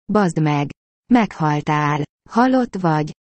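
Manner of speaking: ordinary delivery, nothing marked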